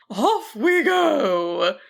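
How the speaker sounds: a dragon launching into flight; cheerful. A narrator's reading. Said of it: "the dragon cheered".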